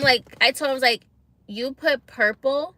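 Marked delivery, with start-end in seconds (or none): 1.5-2.7 slow, incredulous retold question; retold disbelief. Client confronts tattoo artist over wrong ink colour, incredulous.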